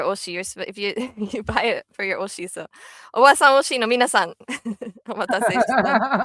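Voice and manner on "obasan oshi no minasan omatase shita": announcer voice. Pretend. Ad-like announcement to fans.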